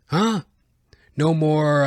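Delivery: usual speaking voice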